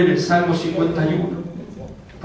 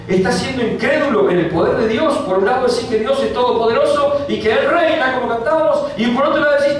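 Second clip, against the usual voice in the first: high, building preacher cry; full-force preaching; 9 semitones higher than usual. Acted. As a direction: preach it with rising fire. Preaching, pitch climbing.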